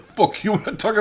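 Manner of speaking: high, loud mock snarl; high squawking refusal from the prisoner; defiant prisoner. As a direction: spit it back at the captor, laughing. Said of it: "And you're like".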